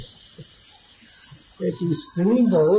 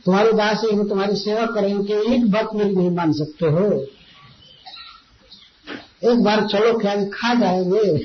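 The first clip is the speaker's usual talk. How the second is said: retold angry pleading; 3 semitones higher than usual. Sati scolding her husband Shiv for not coming, mock-angry pleading. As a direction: imitate a wife's cross, insistent pleading. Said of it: "बड़े क्रोध से देखती थी".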